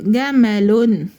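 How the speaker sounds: drawn-out "جمل" ending in -un; tanween damma. Shown as a demonstration. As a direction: say "جمل" slowly as ga-ma-lun. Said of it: "جمل تنوين بالضم". (تنوين بالضم، "جمل" بتتنطق ببطء جَمَلُن)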